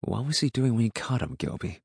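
mildly probing, softly put; soft questioning. A narrator's reading. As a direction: ask it gently, trailing down on the name. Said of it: "he asked softly".

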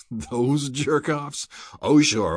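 high, drawn-out scoff, then a loud dismissal; snorting scorn. A narrator's reading. Rourke dismisses the Eaglemen's exploits, scornful. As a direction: scoff in open disbelief. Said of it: "Rourke snorted".

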